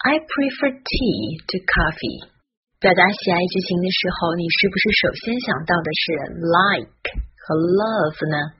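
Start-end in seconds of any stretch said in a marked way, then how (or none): 0.1-2.3 slow model reading. Shown as a demonstration. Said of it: "今天口语天天练分享的是".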